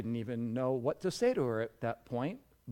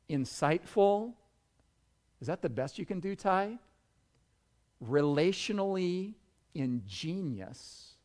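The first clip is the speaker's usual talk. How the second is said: ordinary talk, nothing marked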